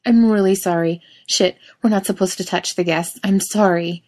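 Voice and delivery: anxious flustered apology; panicky, concerned. Acted. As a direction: apologize in a nervous rush. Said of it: "in a panicky, concerned voice".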